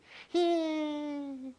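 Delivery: high burst of laughter; a real laugh breaking out high; short, high, real laugh. Real, not acted. Laughs at his own joke.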